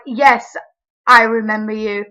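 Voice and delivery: mock-pointed reply, emphatic on the second go; loaded, deliberate "oh, I remember you"; pointed recognition. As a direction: act out knowing exactly who he is. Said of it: "Like that".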